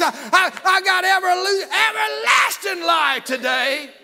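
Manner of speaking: shouted, high revival preaching; preaching at full force. Real, not acted. Preacher roaring to the church about salvation, shouting. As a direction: preach it out loud to the congregation.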